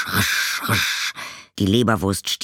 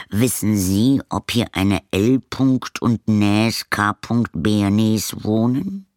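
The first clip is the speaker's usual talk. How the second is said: slow, careful postman voice spelling Näs and Bernes; puzzled postman; 3 semitones higher, 4 dB louder, slower than usual. Acted. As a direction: ask slowly, sounding out the odd name. Postman asks caretaker.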